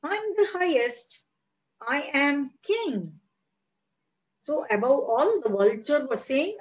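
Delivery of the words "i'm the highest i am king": much higher, proud boasting cry; high proud bird boasting it is king; vulture's cry. Acted. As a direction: call it down from the sky like a proud king. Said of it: "vulture cry".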